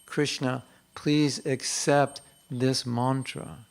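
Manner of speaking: slow, earnest entreaty; devotional plea. Shown as a demonstration. Showing how to chant japa to Krishna, slow pleading. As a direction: plead humbly, drawing out the words. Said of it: "Why don't we chant that, our japa like that".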